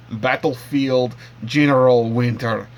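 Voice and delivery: put-on deliberately terrible Russian accent; hammy mock Russian accent, played for laughs. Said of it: "I'm gonna do a terrible Russian accent".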